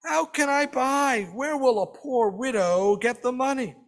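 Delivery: understated bitter complaint from a sick widow. A narrator's reading. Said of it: "She complains bitterly".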